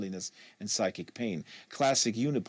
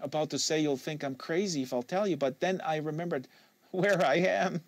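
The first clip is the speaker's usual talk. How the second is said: put-on a touch higher young woman's voice, guarded; Kate, lightly voiced; 6 semitones higher than usual. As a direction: give Kate a slightly higher, wary voice.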